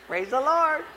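high, loud Praise the Lord; loud praise greeting. Retold or imitated. Pastor greeting another church's potluck with a loud, high praise. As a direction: call it out brightly to the room.

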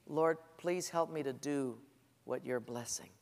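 soft and humble, asking gently; humble prayer. Shown as a demonstration. Preacher modelling the better prayer, hushed and humble. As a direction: pray it quietly, asking to be led. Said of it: "here's a better prayer".

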